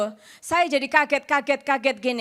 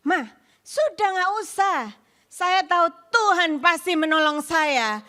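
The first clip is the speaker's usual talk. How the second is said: raised, confident insistence; emphatic reassurance; 4 semitones higher than usual. Retold or imitated. Speaker tells mother God will surely help, emphatic reassurance. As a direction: re-enact firmly putting mother's worry to rest.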